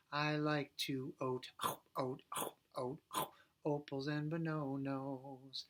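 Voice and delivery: "eat" sung as "oat", "bananas" as "bononos"; O vowel swap. Shown as a demonstration. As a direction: sing every vowel as O. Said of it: "So we're gonna do the O sound".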